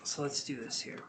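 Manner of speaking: talking through a yawn; words stretched by a yawn. Real, not acted. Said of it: "Really sorry about the yawning".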